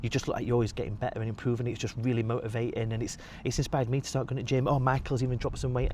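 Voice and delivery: mild imitation of tipsy admiring friends; gushing friends. Uni friends praising him, voiced.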